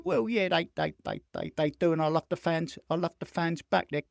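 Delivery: lightly voiced polite footballer fending off questions; soft, stammering mock interviewee; diplomatic young footballer. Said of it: "And so he's going".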